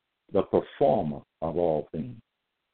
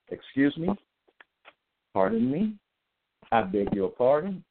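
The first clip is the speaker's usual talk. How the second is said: mock indignation; 5 semitones higher than usual. Mock outrage at the verse.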